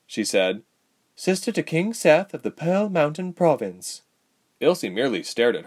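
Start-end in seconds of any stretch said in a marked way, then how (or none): 1.2-4.0 higher-pitched royal introduction; lightly acted young royal voice; young princess, formal. A narrator's reading. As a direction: announce your title with poise.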